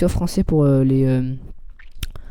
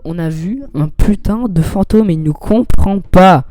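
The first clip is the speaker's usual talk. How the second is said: exasperated, building emphasis; mock exasperation; 3 dB louder than usual. Player fed up that Bob doesn't understand, mock exasperation. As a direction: spell it out in mounting frustration.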